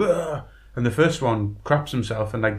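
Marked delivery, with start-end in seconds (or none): 0.0-0.4 mock startling yell. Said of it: "he's like".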